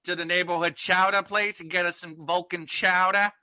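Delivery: mock Boston accent, chowdah; hammed-up Boston local. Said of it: "wicked cool Boston stereotypes".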